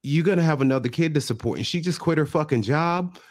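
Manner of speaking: going off. Retold or imitated. Mother grilling the boyfriend about supporting the baby, going off. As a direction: imitate a mother's tirade, climbing in pitch. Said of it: "she's going off about".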